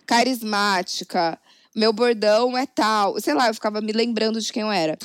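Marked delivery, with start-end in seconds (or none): 0.1-3.2 slow. Retold or imitated.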